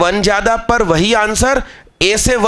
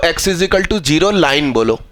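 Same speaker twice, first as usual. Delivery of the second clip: slow correction; 4 semitones lower, slower than usual. Shown as a demonstration. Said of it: "Y axis मत बोलो".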